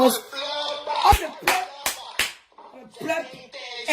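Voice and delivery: very slow, stretched syllables; mock-solemn slow rule; slow drawn-out warning.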